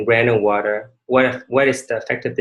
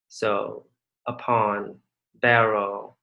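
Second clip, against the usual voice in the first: slow reading; 2 semitones lower, 4 dB quieter, much slower than usual. Shown as a demonstration. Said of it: "which syllable does the stress fall on".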